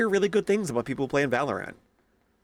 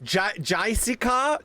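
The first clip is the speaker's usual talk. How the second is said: barista calling orders; 8 semitones higher, slower than usual. Retold or imitated. Barista mangling a name.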